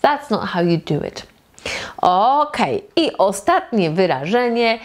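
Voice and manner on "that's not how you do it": "That's not how you do it" with "do it" run together; do it as one word. Shown as a demonstration. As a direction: glide from "do" straight into "it" as a single word. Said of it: "Do it wymawiamy jako jeden wyraz".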